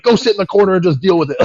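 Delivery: high, loud imitation of a scolding dad; mock the father laying down the law; dad yelling. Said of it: "he's, like, yelling at me".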